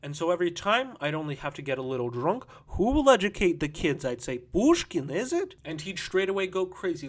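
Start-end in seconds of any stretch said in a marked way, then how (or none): 2.7-4.0 high, loud goading question; taunting challenge. Acted. Drunken taunting of her lover. 4.4-5.5 high, loud goading jab ending higher; taunting question. Acted. Drunken taunting of her lover.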